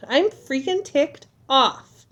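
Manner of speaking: angry outburst through a laugh; real anger. Real, not acted. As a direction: spit it out slowly, really ticked off. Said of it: "I'm mad".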